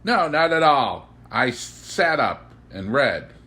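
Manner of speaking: put-on the boy beaming as he answers; glittering boy's reply. A narrator's reading. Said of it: "He fairly glittered in the room".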